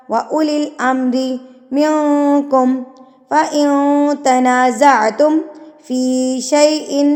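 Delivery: slow, measured tajweed chant; Quran recitation. Acted. Teacher reciting the verse for students, measured chant. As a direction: recite each phrase slowly with long vowels.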